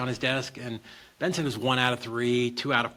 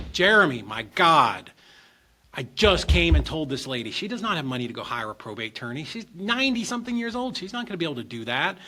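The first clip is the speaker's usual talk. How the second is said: louder, higher, pissed off at the attorney; raised angry protest; angry outburst; 4 semitones higher, 4 dB louder than usual. Retold or imitated. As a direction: chew out your lawyer in frustration. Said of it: "And I was pissed".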